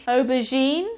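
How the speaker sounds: aubergine with a "zh" sound for G; soft G. Shown as a demonstration. Teacher recalling an earlier French word, aubergine with soft G. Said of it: "this G is also soft".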